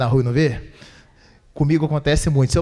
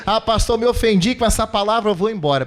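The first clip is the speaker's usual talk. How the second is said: mock offended member; 4 semitones higher than usual. Pastor mocks an offended member leaving church, mock whine. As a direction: play the easily offended churchgoer.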